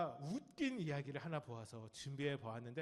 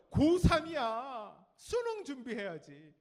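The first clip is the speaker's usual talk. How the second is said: slow, loud, high mock nag; nagging parent; 6 semitones higher, 9 dB louder, slower than usual. Parent pushing exam prep, mock nagging. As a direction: stretch it out, hammed-up scolding. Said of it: "무슨 얘기 들어요?".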